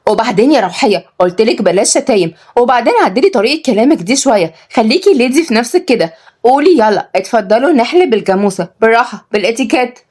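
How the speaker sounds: prim, irritated correction; understated scolding; mildly angry. Acted. Kenzi correcting Rawhiya's manners, cross. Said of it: "ردت كنزي بغضب".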